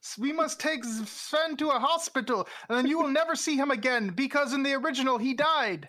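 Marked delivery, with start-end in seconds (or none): 0.0-4.1 bad acting. Acting out cartoon dialogue.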